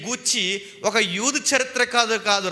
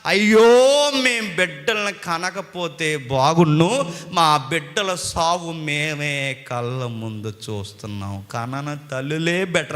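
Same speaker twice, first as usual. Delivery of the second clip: imitated lament; 5 semitones lower, slower than usual. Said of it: "అనుకుంటారట".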